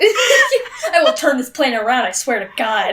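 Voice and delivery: S1 plays Alice as an exasperated parent, mock stern. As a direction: play the parent threatening to turn back, lightly. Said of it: "that voice is what I imagined".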